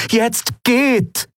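high voiced curt order; Aylan ordering. A narrator's reading. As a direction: send them off in a high firm voice.

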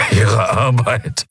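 weak, bitter laugh into slow words; croaky laugh. A narrator's reading. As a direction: laugh hoarsely, then drag out the question. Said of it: "produzierte ein Lachen, ein krächzendes, leises".

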